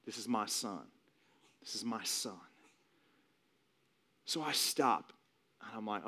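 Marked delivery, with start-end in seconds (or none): 0.0-2.4 low, soft, spaced-out assurance; quiet claim. Retold or imitated. God speaking inwardly about his son, quiet claim. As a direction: repeat it gently with quiet weight.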